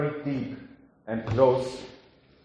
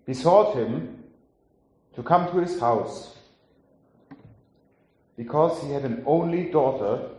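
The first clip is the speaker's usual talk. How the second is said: scripture reading. Acted. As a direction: read the passage as scripture to the congregation. Reads the Gospel passage aloud.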